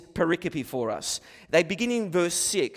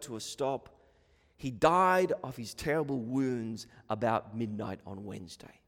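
solemn article reading; 4 semitones lower than usual. A narrator's reading. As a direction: read out a death gravely, letting it fade away. Reads the article's ending aloud.

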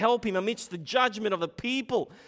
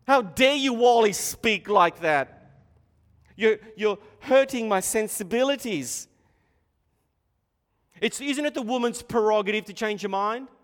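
mock offended listener; 4 semitones higher, 7 dB louder than usual.

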